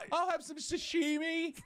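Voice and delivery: high, slow snooty voice; posh mock voice. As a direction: drawl it like a snob. Mocking posh diner voice.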